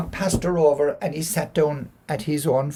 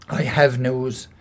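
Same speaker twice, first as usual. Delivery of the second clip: slow, grave confession; solemn admission; 3 semitones lower, slower than usual. Acted. Husband confessing to his wife, slow and grave. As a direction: admit it slowly and heavily.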